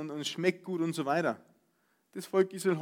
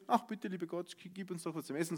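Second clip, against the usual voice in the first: meek plea; 7 dB quieter than usual. Pretend. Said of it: "sie haben nicht gebetet".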